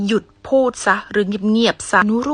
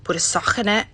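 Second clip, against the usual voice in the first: Liverpool accent; 3 dB quieter, much slower than usual. Shown as a demonstration. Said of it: "สำเนียงเขานี่แรงอีหลี อยากฟังบ่".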